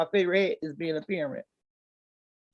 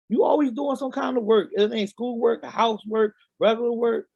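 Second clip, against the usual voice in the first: put-on higher, whiny teen son voice; bad acting; 4 semitones higher than usual. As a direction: complain like a grumbling son. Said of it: "I'ma act out a scene".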